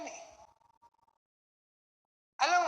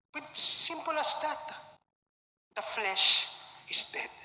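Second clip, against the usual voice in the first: firm declaration; 3 semitones higher, 3 dB louder, slower than usual. Real, not acted. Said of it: "preacher declaring".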